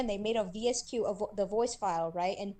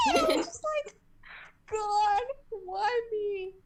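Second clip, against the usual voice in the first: high, fast laughing disbelief; 12 semitones higher, 3 dB louder than usual. Real, not acted. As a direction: laugh it out in mock despair. Laughing reaction to the video.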